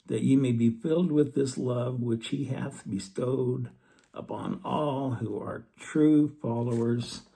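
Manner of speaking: slow, solemn close of the verse; reverent, slowing verse reading; scripture reading. Acted. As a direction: let the verse settle slowly on Jesus Christ. Reads scripture aloud.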